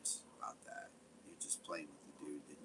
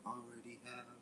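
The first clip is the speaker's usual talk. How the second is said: softer, mocking sing-song imitation of Toby; 5 semitones higher, 7 dB quieter than usual. Mocking Toby's FBI threat in a joke song, soft sing-song. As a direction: lightly parody his threat as a lazy song. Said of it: "we're just gonna sit there and be like".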